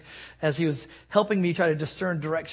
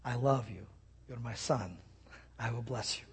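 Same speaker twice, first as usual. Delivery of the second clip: tender voice of God; 5 semitones lower, 10 dB quieter than usual. Retold or imitated. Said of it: "God will say to you".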